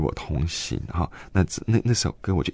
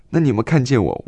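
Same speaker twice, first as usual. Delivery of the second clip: pleading to God; 6 semitones higher, 4 dB louder, faster than usual. Retold or imitated. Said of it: "我心中就在想".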